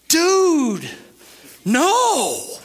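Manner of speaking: loud, high, drawn-out dismissal; emphatic rebuff. Real, not acted. Preacher rejects the timid view of God, emphatic. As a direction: knock the idea down with two big words. Rebukes the mocked worried view.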